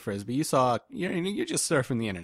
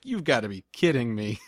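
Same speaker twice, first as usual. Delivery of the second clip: laughing quote. Retold or imitated. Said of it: "When I saw myself pooping".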